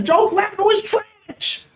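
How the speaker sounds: drawn-out shout. Real, not acted. Streamer ranting to viewers about the quarterback, drawn-out shout. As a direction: stretch it out and yell it in disbelief.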